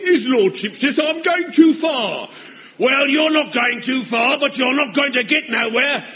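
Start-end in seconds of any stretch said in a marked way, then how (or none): 0.0-2.3 mocking announcement. Sergeant mocking to everyone.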